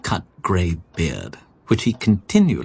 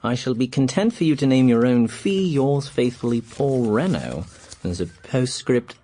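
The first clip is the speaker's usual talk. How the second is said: reading a letter aloud; 5 semitones higher than usual. Acted. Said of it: "But read for yourself".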